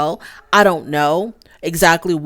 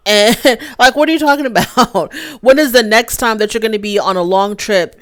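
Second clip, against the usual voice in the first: laughing disbelief; 4 semitones higher, 4 dB louder than usual. Real, not acted. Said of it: "laughs through her question".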